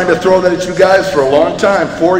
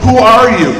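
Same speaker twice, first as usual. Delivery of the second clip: higher, mildly called out; echoed call; 5 semitones higher, 3 dB louder than usual. A narrator's reading. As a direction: answer back like an echo. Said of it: "He receives the answer".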